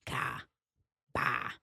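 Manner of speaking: Ka and Ba softly with AH; others' open A. Shown as a demonstration. Podcaster demonstrates how they say A's, soft AH in Ka, Ba. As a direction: sound out Ka, Ba with a broad A. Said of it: "That's how they say their A's".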